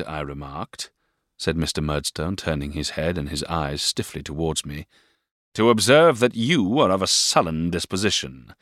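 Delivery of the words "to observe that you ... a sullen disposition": cold, louder reproof; stern stepfather voice. A narrator's reading. Stepfather repeats his rebuke to David, stern. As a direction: scold the boy coldly.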